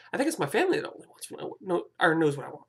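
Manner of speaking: hiccups breaking the words; hiccuping. Real, not acted. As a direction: talk through the hiccups. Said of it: "Sorry, I'm kinda burping, hiccuping".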